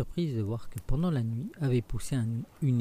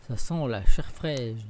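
louder, slow ogre growl; ogre's growl; 7 dB louder, slower than usual. Acted. Ogre tells his wife he smells fresh meat, growling. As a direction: drag it out like a hungry ogre. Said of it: "l'ogre arriva".

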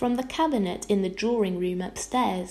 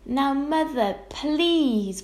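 pleading, pitched up; a child's higher-pitched plea; begging; 6 semitones higher, 4 dB louder, much slower than usual. A narrator's reading. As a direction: beg her to calm down. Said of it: "begged Arrietty".

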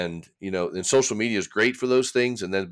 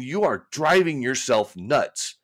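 slow, higher, telling himself off; exasperated self-talk; 5 semitones higher, much slower than usual. Retold or imitated. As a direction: drag out You are driving yourself nuts, exasperated. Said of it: "I'm thinking".

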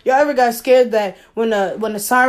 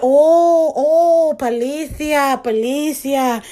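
mock Spanish panic; 3 semitones higher, much slower than usual. Faking a Spanish speaker for the police, mock alarm. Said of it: "all of that role playing".

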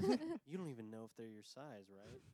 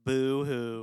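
fake crying; 16 dB louder than usual. Mocking Clint's self-pity.

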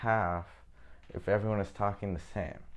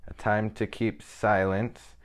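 slow, measured reading, leaning on each "time"; scripture reading; 3 dB louder, slower than usual. Acted. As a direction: read the verse slowly and solemnly. Reads Bible verse aloud.

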